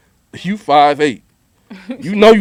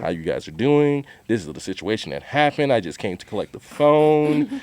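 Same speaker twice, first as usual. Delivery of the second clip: softer, lightly proper customer-service voice; company white voice; 3 semitones lower, 5 dB quieter than usual. Retold or imitated. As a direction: talk real proper, polite and careful. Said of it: "putting on my company white voice".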